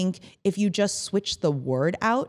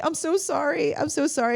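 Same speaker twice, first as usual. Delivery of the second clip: high-pitched repeated mock apology; over-apologetic; 8 semitones higher than usual. Forgetful boss to chief of staff, over-apologetic. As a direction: plead it in a higher voice, imitating yourself.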